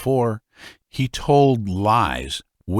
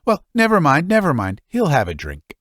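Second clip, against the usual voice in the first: much higher and louder, brushing it off; father smoothing over the virago's complaint, higher; old father, hasty; 7 semitones higher, 3 dB louder than usual. Acted.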